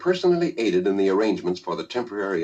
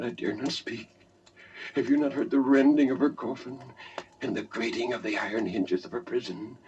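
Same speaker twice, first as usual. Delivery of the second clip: hushed Roderick; 4 dB quieter than usual. Acted. Roderick's hushed confession continues.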